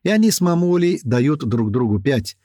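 ordinary delivery, nothing marked

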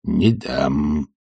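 low, cold and curt; old servant's icy no; cold refusal. Acted. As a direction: refuse coldly. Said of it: "холодно отвечал Захар".

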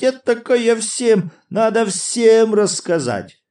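громко и высоко, взахлёб от смеха; кричи сквозь неудержимый смех; душащий смех. A narrator's reading. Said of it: "неудержимый смех начал снова душить". (громкий хохочущий крик)

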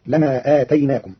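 "آتيناكم" said slowly with na instead of tu; آتيناكم بالنون; with nun. Shown as a demonstration. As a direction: stress the added na in "آتيناكم". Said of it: "بالنون والألف بعد الياء".

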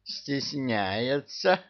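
очень медленно и мягче, с умилением; протяни с нежностью; умилённо. Acted. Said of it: "умилился Кощей". (Кощей умиляется невесте)

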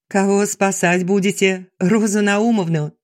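ordinary delivery

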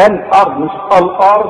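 الأرض first with a light hamza, then with a heavy one; light versus heavy hamza. Shown as a demonstration. Teacher contrasts right and wrong الأرض. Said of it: "رقق الهمزة".

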